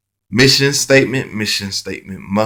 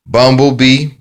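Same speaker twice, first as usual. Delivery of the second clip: Bumblebee called out higher and louder, rising; called-out keyword; 4 semitones higher, 6 dB louder than usual. Shown as a demonstration. Teacher showing the phonics card, Bumblebee called out loud and high. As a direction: announce the card word Bumblebee loudly and high. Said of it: "phonics card keyword drill".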